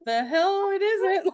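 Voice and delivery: high, slow, laughing defiant retort; mock defiance breaking into laughs. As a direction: snap back while laughing. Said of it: "And I'm like".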